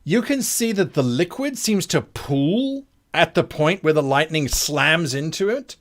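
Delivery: slow, suspenseful scene-setting; game master narration. Acted. Game master describing lightning hitting the creature, dramatic narration. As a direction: linger on each vivid detail.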